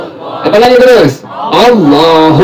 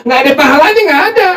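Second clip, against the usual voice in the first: higher, laughing through words; 7 semitones higher, much faster than usual. Real, not acted. Teacher laughing while warning students against replying.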